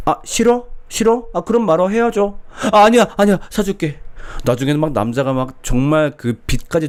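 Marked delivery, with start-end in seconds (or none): 0.1-2.4 high, mock sulky breakup threat; a hammed-up spoiled girlfriend threatening to leave; pouting girlfriend. 2.7-4.0 high, loud hurried backing down; mock panic to keep her; panicked boyfriend.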